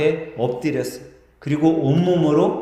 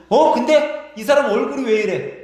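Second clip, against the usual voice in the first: much higher, amazed questioning; astonished crowd; 8 semitones higher than usual. Acted. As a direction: gasp at the healed skin in disbelief. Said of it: "깜짝 놀라는 거예요". (깜짝 놀라 묻는 군중 목소리)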